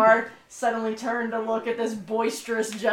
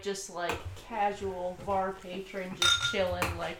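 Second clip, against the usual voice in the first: hushed, much softer aside; playing it chill; 6 semitones lower, 11 dB quieter than usual. Real, not acted. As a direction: keep it low and casual. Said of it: "I'm just playing chill".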